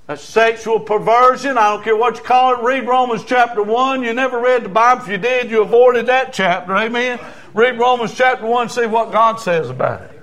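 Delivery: insistent preacher in full flow; forceful preaching. Real, not acted. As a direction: press the point hard on the congregation.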